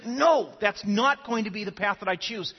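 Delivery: firm, emphatic stand; mildly forceful, resolute declaration; emphatic refusal. Acted. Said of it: "is so emphatic, to say".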